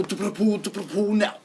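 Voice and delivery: silly pool chant. Pretend. Friend goofing off, high babbled chant. Chanting nonsense over host.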